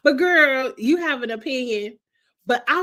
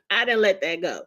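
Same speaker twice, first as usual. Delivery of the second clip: chuckling it again; amused repeat; laughing; 3 semitones lower than usual. Real, not acted.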